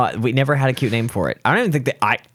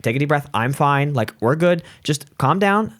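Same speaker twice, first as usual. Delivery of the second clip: calming; 4 semitones higher than usual. Retold or imitated. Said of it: "I had to calm her down".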